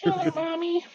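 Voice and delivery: put-on high eerie little-boy whisper; creepy child voice. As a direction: channel the killer's inner child, high and eerie. Imitating killer's child voice.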